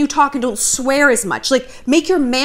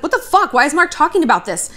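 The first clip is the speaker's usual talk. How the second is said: mock outrage; 4 semitones higher than usual. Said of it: "I wanted to get mad".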